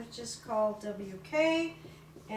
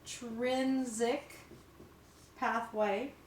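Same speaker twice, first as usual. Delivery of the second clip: slow emphasis; 4 dB quieter, slower than usual. Shown as a demonstration. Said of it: "the first one is the extrinsic pathway".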